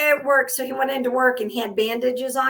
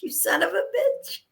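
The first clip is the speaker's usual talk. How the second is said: laughing curse; 7 semitones higher, 5 dB quieter than usual. Retold or imitated. Cursing the driver, laughing.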